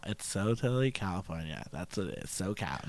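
put-on SoCal girl voice. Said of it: "Just say SoCal".

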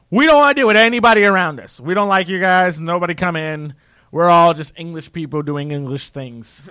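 loud, mocking British isolationist. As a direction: shout it like a smug Brit. Mocking British closed borders.

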